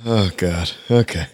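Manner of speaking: puckered up from a sour candy; eating sour candy. Real, not acted. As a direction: talk through a sour mouthful. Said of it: "That hurt my face".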